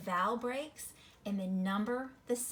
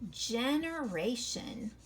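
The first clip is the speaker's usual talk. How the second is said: slow reading; much slower than usual. Shown as a demonstration. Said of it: "let's clap this one out".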